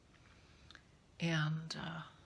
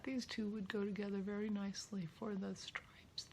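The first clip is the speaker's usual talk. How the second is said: whispering; 6 dB quieter than usual. Real, not acted. Musing to herself.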